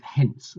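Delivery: "hence" picked out with clear emphasis; stress on hence. Shown as a demonstration. Maths tutor flagging a key word in the question, stressing "hence". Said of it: "emphasis on hence here".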